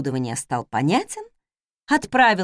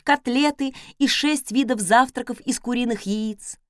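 usual speaking voice

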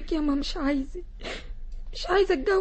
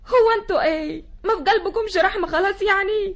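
tearful; 2 semitones higher than usual. Acted. Daughter pleads with family.

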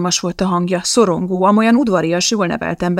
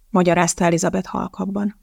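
usual speaking voice

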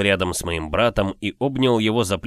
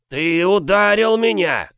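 high, loud, slow squeaky giant's voice; a huge brute with an odd squeaky voice; 10 semitones higher, 5 dB louder, slower than usual. Acted. Giant squeaks angrily at the boy who struck him. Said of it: "своим странным песклявым голосом".

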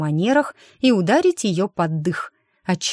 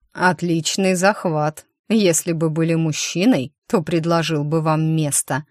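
low male voice. Acted. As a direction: speak it as a calm low man. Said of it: "знакомый низкий голос".

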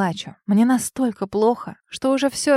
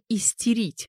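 ordinary delivery, nothing marked

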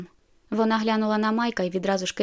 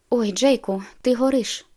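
alarmed; 3 semitones higher, 4 dB louder than usual. Acted. Bella touching Jacob's forehead, alarmed and louder. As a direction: gasp at how hot he is.

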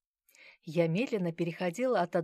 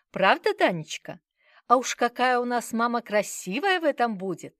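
fawning grandmother; 6 semitones higher, 8 dB louder than usual. Acted. Grandmother fawning over child.

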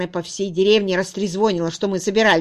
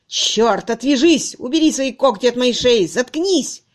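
loud, higher angry yell; a young man shaking off his clinging fiancée; disgusted snarl; 4 semitones higher, 6 dB louder than usual. A narrator's reading. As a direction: shove her off with a shout. He throws her off.

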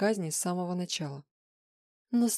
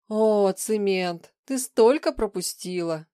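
mocking; 2 semitones higher, 6 dB louder, slower than usual. Shadow mocks Svetlana.

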